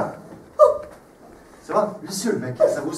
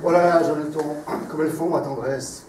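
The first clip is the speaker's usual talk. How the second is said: grand tragic stage delivery. Acted. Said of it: "sur un ton de tragédie".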